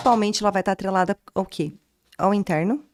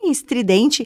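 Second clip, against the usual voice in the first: demonstração estridente, aguda e arrastada; voz estridente; slower than usual. Shown as a demonstration. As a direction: estique a palavra num tom alto e estridente. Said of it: "Aquela voz extremamente". (voz estridente, aguda e esticada)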